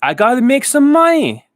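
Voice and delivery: high, loud haggling shopkeeper; Rick from Pawn Stars. Retold or imitated. Rick haggling with a seller, high loud voice. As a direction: pitch it up and push like a pawnbroker haggling. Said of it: "Rick over here is".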